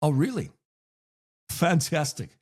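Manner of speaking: hammed-up, drawn-out polite delight; badly faked keen interest; fake enthusiasm. Shown as a demonstration. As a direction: gush unconvincingly, stretching the words. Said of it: "I add fake enthusiasm".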